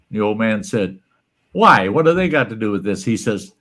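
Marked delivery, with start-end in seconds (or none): 1.5-3.0 put-on puzzled old man. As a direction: blurt it out confused. Old man asks doctor.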